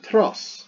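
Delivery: "tros" set apart as one beat; syllable by syllable. Shown as a demonstration. Teacher splits the Greek word for doctor, lone "tros". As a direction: isolate "tros" as the closing syllable. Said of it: "two syllables, not three".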